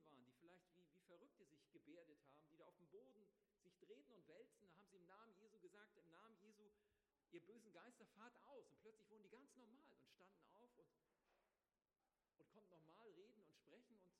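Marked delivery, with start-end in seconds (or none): 6.0-8.7 commanding exorcism. Retold or imitated. Disciples ordering evil spirits out of a possessed man, commanding. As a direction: order the demons out with authority.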